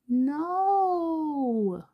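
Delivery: high, stretched-out indignant no; high whiny denial; indignant high protest. Acted. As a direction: wail it like an offended kid. Hawks protests being called baby.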